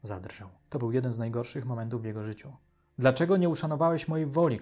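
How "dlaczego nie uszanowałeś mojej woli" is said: higher, louder, reproachful cry; angry shout. A narrator's reading. Daughter to father who saved her, angry shout. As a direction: shout the accusation at him. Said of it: "krzyknęła".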